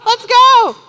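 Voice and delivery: high, loud, keen let's go; mock-eager partner off to breakfast. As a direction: leap at skipping the gym. Mock dialogue with workout partner.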